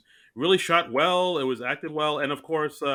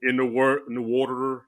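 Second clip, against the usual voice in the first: put-on Pennsylvania accent. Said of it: "Pennsylvanians apparently talk like murder and dirt".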